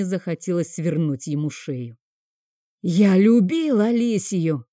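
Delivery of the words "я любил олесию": slow, louder shout. Acted. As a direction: cry it out in anguish. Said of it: "закричал я". (громкий крик)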